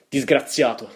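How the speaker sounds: declaimed shout; dramatic cry. A narrator's reading. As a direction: cry out at the bird in reproach.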